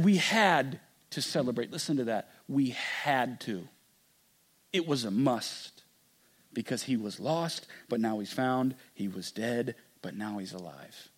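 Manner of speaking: father to son, quietly tender; tender hush. Acted. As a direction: let the words sink to a near hush. Father's tender closing words.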